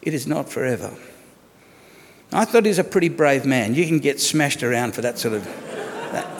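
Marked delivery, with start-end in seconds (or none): 0.0-0.9 softer, tender reassurance; gentle. Retold or imitated. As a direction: soothe his wife in pain, softly. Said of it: "her husband very gently said".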